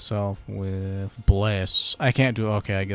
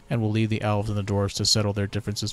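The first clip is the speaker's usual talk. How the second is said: haughty elf, a touch louder; elf ambassador; 3 dB louder than usual. Pretend. Elven ambassador greets the new Lord Protector, haughty. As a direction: greet the human with lofty pride.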